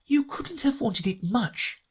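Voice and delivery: put-on high, slow, doubting girl; Alice. A narrator's reading. Alice doubts sea creatures need washing, high girlish voice. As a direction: reason it out in a high voice. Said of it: "said Alice".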